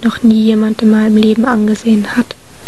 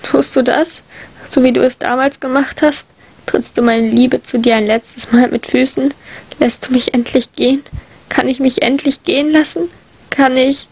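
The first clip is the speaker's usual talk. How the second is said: desperate plea; 2 semitones higher than usual. Acted. Narrator as England asks him to finally let go, pleading. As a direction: beg with a catch of bitter laughter. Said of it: "frage ich und lache dabei".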